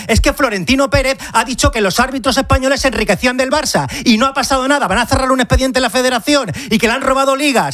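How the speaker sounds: real exasperated outburst in a debate; worked up. Real, not acted. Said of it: "ya me habéis calentado".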